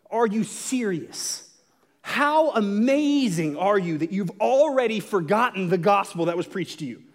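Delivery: slow, drawn-out disbelief; incredulous rebuke. Retold or imitated. Paul confronting the Galatians, slow and incredulous. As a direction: lean on each word like you can't believe it. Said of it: "he just comes out and says".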